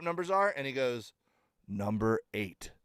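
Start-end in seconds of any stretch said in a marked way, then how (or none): 1.7-2.7 low, slow, dead-calm threat; calm and cold. Retold or imitated. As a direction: say it slowly and coolly, like a promise. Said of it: "looks me in the face calmly".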